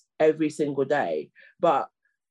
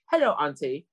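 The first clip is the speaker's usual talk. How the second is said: lightly imitated African accent; a hint of exaggerated African accent; mock African accent; 3 semitones lower than usual. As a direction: mimic a clumsy put-on African accent. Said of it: "in a stupid African accent".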